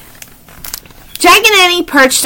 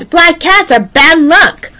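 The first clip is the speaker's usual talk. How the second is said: train driver; 5 semitones higher, slower than usual. Acted. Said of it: "Thomas' driver says".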